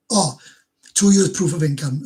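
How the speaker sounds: loud, startled reading of the rule; sudden realisation. Real, not acted. Streamer realising he misread the visa rule, startled. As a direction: catch your own mistake out loud.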